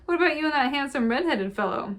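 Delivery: indignant protest. A narrator's reading. Shayla to teasing Orla, a high loud indignant protest. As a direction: squeal it out, caught out and denying it.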